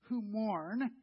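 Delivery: slow, reverent quotation of the verse; solemn scripture reading. Acted. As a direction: let the verse land slowly and gently. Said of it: "he said".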